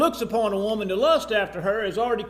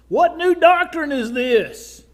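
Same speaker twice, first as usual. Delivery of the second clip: loud, high, drawn-out astonishment; acted amazement; 6 semitones higher, 8 dB louder, slower than usual. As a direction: cry it out like an amazed crowd. Voices amazed crowd.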